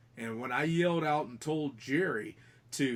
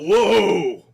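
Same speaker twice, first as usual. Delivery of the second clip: loud high retold whoa, falling off; imitated startled yell; 8 semitones higher, 16 dB louder than usual. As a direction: shout whoa like someone jolted by a touch. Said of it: "I hear Jerry yell out".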